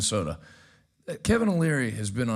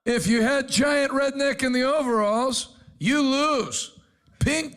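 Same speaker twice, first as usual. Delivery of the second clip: laughing and raised, high and bright with glee; laughing out the result of the fight; excited laughing call; 10 semitones higher, slower than usual. Real, not acted. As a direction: crow over the surprise knockout through laughter. Laughing at surprise knockout.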